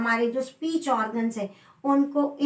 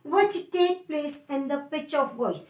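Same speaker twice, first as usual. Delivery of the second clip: very slow, word by word dictation; much slower than usual. Shown as a demonstration. Teacher dictating a definition to students, very slow. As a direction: spell out the definition slowly so students can write.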